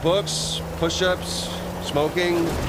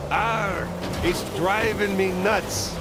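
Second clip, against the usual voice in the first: pirate voice; 5 semitones higher, much slower than usual. Acted. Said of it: "the pirate says back".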